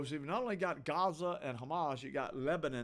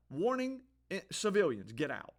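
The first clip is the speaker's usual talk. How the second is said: mock warning; 4 semitones higher than usual. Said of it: "that's what Israel does".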